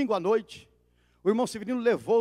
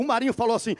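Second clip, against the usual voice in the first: ordinary talk, nothing marked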